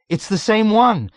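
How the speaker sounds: high, loud insistent shout; emphatic shout. A narrator's reading. Dunbar over the raucous commotion, shouting emphatically. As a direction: voice rising above the commotion. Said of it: "shouted at him emphatically".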